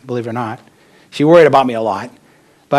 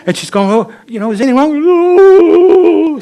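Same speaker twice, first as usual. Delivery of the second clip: a hint of a high, concerned mom; lightly voiced anxious mother checking in; worried mother; 9 dB louder than usual. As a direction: mom asking her crying son what's wrong, pitched up. Mother worried by his sobbing.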